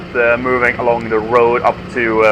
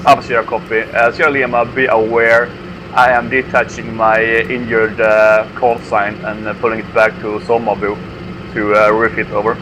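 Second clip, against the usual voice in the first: crackly military radio. Real, not acted. Squad leader reports over radio.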